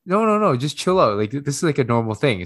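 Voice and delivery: high-pitched imitation of frantic reassurance; mock soothing adult. Adult calming a crying child, quoted.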